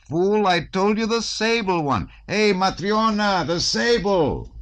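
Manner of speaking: very high, drawn-out holler; slow, far-carrying angry call; ringing shout. A narrator's reading. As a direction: shout so it carries through the rooms. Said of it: "he shouted so that his voice rang far through the rooms".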